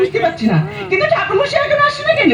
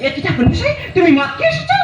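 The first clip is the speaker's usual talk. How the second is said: shocked. Acted. Shocked bride at drunk priest.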